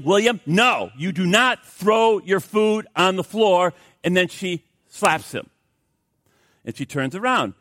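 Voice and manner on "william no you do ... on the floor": firm mother, slowed; a mild scolding of a toddler. Retold or imitated. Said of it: "she quickly says to little William".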